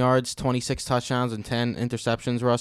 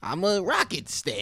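slow, high bro voice; Coach Steve voice; 8 semitones higher than usual. Pretend. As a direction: put on a slow, high dude voice. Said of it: "You sounded like the dude from".

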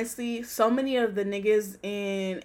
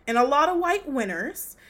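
pointed repetition; 5 semitones higher, 3 dB louder than usual. Real, not acted. Repeats line with rising exasperation.

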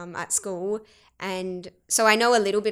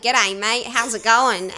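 broad Aussie greeting; Australian accent; 4 dB louder than usual. Shown as a demonstration. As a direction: switch into casual Australian. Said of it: "I have this Australian accent".

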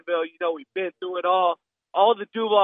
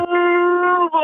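shout; 12 semitones higher, 7 dB louder than usual. Real, not acted. Caller's Duval rallying cry.

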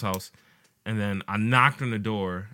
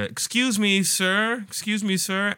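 put-on old lady calling; 9 semitones higher, slower than usual. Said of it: "I hear".

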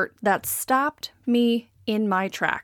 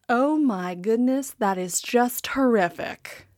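appalled visitor. Retold or imitated. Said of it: "to one person who said".

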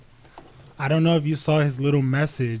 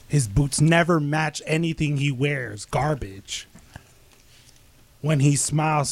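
trash-talk promo. Acted.

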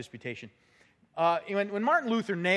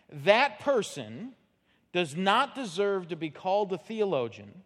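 reading slowly. Shown as a demonstration. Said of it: "I'm just gonna read 'em kinda slowly".

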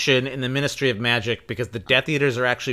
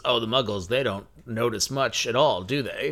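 Stan Shunpike impression; 4 semitones lower than usual. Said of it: "Stan Shunpike say this".

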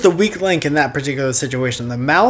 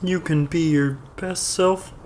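motivational speaker; 7 dB quieter than usual. Retold or imitated. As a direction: imitate a guru selling self-help. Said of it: "He was like".

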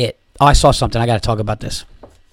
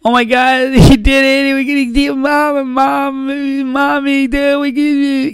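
put-on excited girl voice; 5 dB louder than usual. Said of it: "to the girl".

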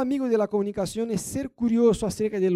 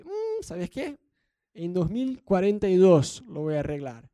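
mock lazy husband. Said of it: "El tono de exigir".

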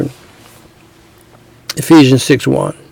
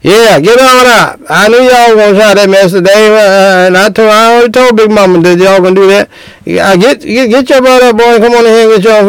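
higher, scolding mother ordering him up from the table; 4 semitones higher than usual. Retold or imitated. A mother tells her son-in-law to get his own plate, lightly scolding. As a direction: hurry the young man out of his seat with a mock scold. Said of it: "Her mother saying something".

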